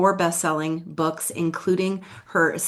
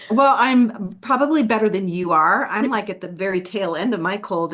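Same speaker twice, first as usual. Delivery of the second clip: lozenge in mouth; 3 semitones higher, 4 dB louder than usual. Real, not acted. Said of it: "I'm just sucking on a, a throat lozenger".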